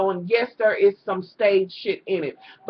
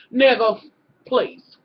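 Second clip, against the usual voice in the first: a sigh, then a drawn-out, louder, disgusted "Nigga, please"; dismissive scoff; 4 dB louder, slower than usual. Retold or imitated. Vlogger acting out the doctor's fed-up face, a louder dismissive scoff. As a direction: lean into the contempt, stretch the words.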